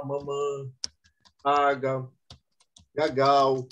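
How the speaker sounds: imitating a toddler's mangled words; baby talk. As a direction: lightly mimic a small child's wrong words. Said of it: "Eles começam a falar errado".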